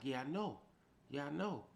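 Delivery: reliving the anger, firing back; retold heated yes-I-know; heated retort. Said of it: "I'm turned up".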